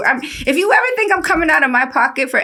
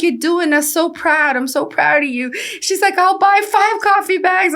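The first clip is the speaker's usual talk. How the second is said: lightly voiced proud old woman; older lady impression; 7 semitones higher than usual.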